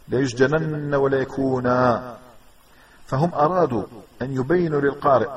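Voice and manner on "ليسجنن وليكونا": slow "ليسجنن وليكونا", last word ending in long a; stop on alif. Shown as a demonstration. Teacher showing a second example of stopping, final alif. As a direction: recite slowly, end "وليكونا" on aa without n. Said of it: "ووقفت قف على ألف".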